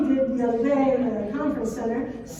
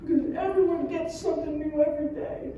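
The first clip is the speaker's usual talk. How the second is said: put-on whiny kid; 4 semitones higher than usual. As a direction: stretch it like a sulky boy. Son explains his reason.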